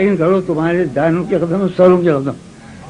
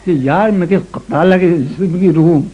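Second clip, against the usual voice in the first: ghazal recitation; 3 semitones lower than usual. Acted. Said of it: "یہ غزل سنو".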